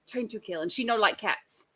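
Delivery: lightly imitated bad Russian accent; mock Russian accent. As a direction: mimic a poor Russian accent, understated. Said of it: "one of the worst Russian accents".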